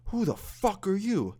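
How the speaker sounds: slow, high-pitched imitated outrage; outraged dad. Dad staring at the stranger in his son's room, imitated outrage. Friend's dad confronts him face to face.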